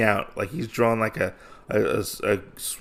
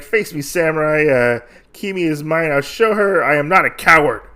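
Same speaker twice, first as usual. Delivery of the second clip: raised, higher mock-heroic challenge; lightly acted defiance, building louder; retold defiant challenge; 4 semitones higher, 4 dB louder than usual. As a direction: call out a bold challenge as a storyteller would.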